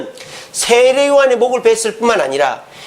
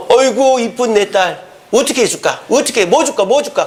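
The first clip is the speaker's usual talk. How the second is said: 헤롯 안디바. Acted. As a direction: fawn over a daughter, eager to give. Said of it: "헤롯 안디바가". (딸바보 아빠처럼 과장되게 어르듯)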